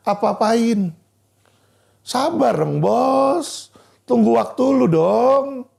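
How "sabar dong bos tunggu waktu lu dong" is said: slow, drawn-out teasing plea; mock pleading. Real, not acted. Lawyer telling the hasty boss to be patient, mockingly. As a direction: stretch the phrase endings, needling.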